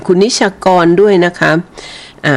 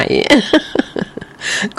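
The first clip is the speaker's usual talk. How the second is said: หัวเราะ 1; 9 semitones higher, 6 dB quieter than usual. Real, not acted. ฟังแฟนรายการพูดแล้วหัวเราะ.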